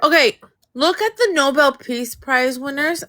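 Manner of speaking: numb tongue, words a bit thick; talking with a numb tongue; numbed throat. Real, not acted. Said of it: "Sorry, my tongue is numb".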